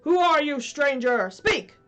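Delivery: loud, high challenge; demanding. Acted. Hook challenging the unseen voice, loud. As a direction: demand an answer. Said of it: "Hook demanded".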